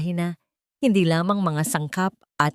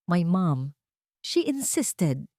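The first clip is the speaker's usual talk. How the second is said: slow, regretful admission; tinged with regret; much slower than usual. A narrator's reading. Employer admitting his mother's wrong to the maid, regretfully. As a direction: let the regret seep into the slow words. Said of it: "May bahid ng pagsisisi sa kanyang boses".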